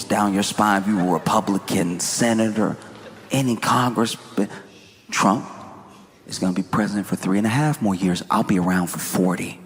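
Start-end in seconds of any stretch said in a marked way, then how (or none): 5.1-9.6 low-pitched mock menace; imitating a menacing message, pitched down; veiled threat. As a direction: read it as a calm, low threat. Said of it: "You could hear the threat in it".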